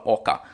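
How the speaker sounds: "oca" ending in an open A; final ER said as A. Shown as a demonstration. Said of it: "termina ali com E R". ("oca" com o ER final pronunciado como A)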